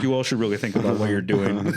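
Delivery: clumsy mock Mexican accent through a laugh; a hammed-up Mexican lady; mock Mexican hairdresser voice, badly done. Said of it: "That was the worst Mexican accent".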